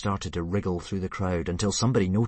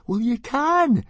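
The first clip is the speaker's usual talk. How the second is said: much higher, loud and firm; stoutly; 8 dB louder, slower than usual. Acted. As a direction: stand your ground firmly. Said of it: "said Fishlegs stoutly".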